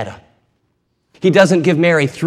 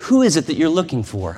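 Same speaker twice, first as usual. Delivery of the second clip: tender voice. Acted. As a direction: ask her gently, like comforting a child. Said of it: "with the most tender voice".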